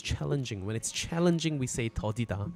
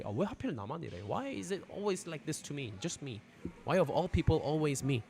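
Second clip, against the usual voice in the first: whiny victim voice; 3 semitones higher, 6 dB quieter, faster than usual. Retold or imitated. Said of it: "those people always say".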